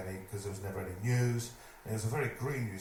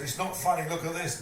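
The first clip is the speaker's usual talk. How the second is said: loud, high and laughing; manager's warning lost in giggles; 7 semitones higher, 5 dB louder than usual. Retold or imitated. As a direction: try to scold but keep cracking up. Manager scolds through laughter.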